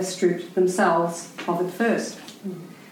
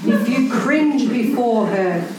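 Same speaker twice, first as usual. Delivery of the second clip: preachy quote. Retold or imitated. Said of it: "He preaches".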